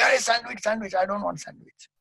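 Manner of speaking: high-pitched pretend panic; mock freak-out. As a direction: play a man freaking out over a sandwich. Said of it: "he will start freaking out".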